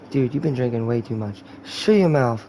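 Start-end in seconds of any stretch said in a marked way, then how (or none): 1.6-2.4 slurred mock-drunk retort; drunk guy. Drunk guy silencing his friend, slurred retort. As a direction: snap back sloppily as a drunk. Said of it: "that's talking to a drunk guy".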